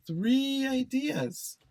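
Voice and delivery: three ideas, said high and slow with three lifted; stress on three. Shown as a demonstration. Teacher stressing the count for students, high and slow. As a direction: lift the word three high and draw it out. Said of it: "three very good ideas".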